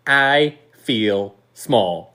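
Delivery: slow, spread-out words; drawn-out complaint. Retold or imitated. Player to giant opponents after losing at volleyball, drawn-out mock defeat. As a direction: stretch each word out in mock defeat.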